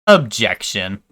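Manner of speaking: nasal, nerdy little objection; nerd voice. Acted. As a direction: say it like the nerd emoji. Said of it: "the nerd emoji voice".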